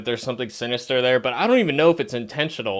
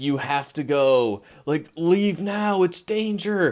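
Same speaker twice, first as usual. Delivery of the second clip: mock screaming, pitched higher; 4 semitones higher than usual. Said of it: "He's not screaming".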